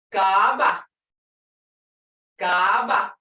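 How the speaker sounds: "Gaba" with a loud, long first "ah". Shown as a demonstration. Teacher giving word for coat, long vowel. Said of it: "I hear a R long sound".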